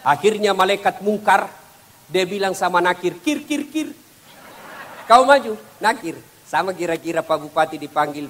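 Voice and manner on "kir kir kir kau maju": angel calling partner. Acted. Angel calls on Nakir.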